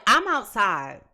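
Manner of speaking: tossing off the partner like it's nothing, bruh; slangy dismissive voice. Retold or imitated. Reader mocking a client who brushes off the partner, loose slangy attitude. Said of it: "if he heard me talking like this".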